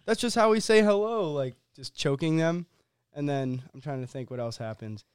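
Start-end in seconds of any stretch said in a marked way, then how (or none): 0.1-1.3 mock alien voice. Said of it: "the aliens are just like".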